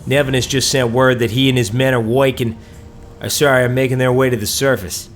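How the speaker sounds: put-on character voice with an assumed accent; technician character voice. Technician Braggle sends the survivor to the surface, acted character voice. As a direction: play a game technician seeing the player off.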